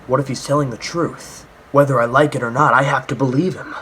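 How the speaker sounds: lightly acted game-character monologue; mock dramatic thinking aloud; imitating spoken-aloud self-talk. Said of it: "whole scene where he's like".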